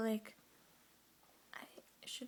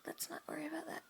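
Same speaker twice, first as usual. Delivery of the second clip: whispering; faster than usual. Real, not acted. Whispers throughout.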